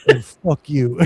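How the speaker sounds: put-on light New York accent, dismissive; a hint of a New York insult; mock New York brush-off. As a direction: toss it off like a rude New York rep. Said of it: "with a New York accent".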